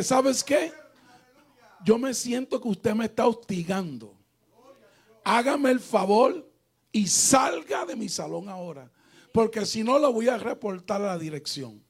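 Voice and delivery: acted stern dismissal; firm confrontation. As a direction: order someone out, indignant but controlled. Retells ordering the woman out.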